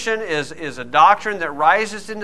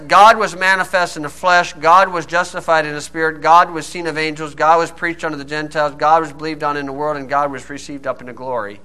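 demonstrated verse reading. Shown as a demonstration. Preacher showing how the verse could read, rhythmic recitation winding down. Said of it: "you could read it like this".

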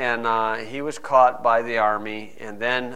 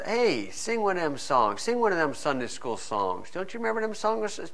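mocking soldier. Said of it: "the soldier comes".

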